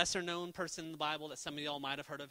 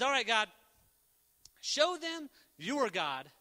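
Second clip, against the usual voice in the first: bold prayer; 4 semitones higher, 4 dB louder than usual. Retold or imitated. Elijah praying for fire.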